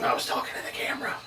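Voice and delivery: quick, soft, laughing aside. Real, not acted. Reader explaining his slip to the cast, laughing softly. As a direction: rush it out while giggling under your breath.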